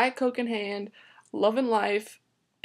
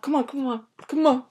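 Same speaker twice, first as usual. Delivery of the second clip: hurried calls while pretending to run; running; 4 semitones higher than usual. Rushing friends to the car, mock running voice. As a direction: act out urging friends along on the run. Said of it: "This is me running".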